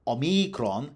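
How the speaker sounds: omikron stressed as o-MEE-kron; stress second-last syllable. Shown as a demonstration. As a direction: put the weight on MEE in omikron. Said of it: "had to be stressed on the second last syllable".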